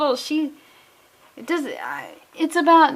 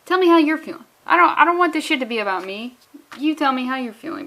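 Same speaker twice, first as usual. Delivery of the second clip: loud, high insistent ask; pushy voiced friend, raised voice; mock insistent plea; 3 semitones higher, 4 dB louder, faster than usual. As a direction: press her to talk, a bit hammed. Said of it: "she's like".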